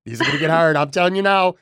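a touch of laughter, pitch lifted; amused laughing. Real, not acted. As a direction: talk through a real chuckle. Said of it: "I'm laughing because".

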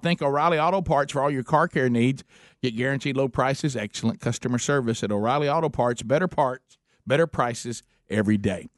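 upbeat sponsor read; bright radio commercial voice. Acted. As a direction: sell it like a radio spot. Host reads sponsor ad.

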